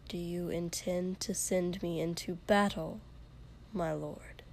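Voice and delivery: soft, quietly insolent question; quiet insolence. Acted. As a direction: ask it quietly, dripping disdain. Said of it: "he asked quietly".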